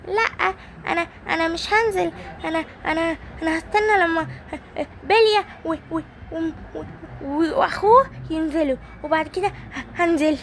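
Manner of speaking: high, halting, stammering reply; hesitant little friend. Acted. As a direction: stall nervously, high. Hommos hesitates, afraid to swim. (تردد وتلعثم بصوت عالٍ)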